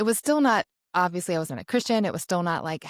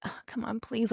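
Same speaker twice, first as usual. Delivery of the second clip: higher-pitched, imitated drunk pleading; begging; 5 semitones higher, 6 dB quieter than usual. Drunk boyfriend pleads to go home together, begging. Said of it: "like, begging me in the frat house".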